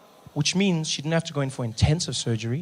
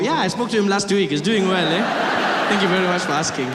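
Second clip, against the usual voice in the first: casual, as if about family news; chatty reply; 3 semitones higher than usual. Acted. Traveller discussing Ebola like a relative, mock-chatty reply. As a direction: answer with mock politeness, a little higher. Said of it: "like, a distant relative".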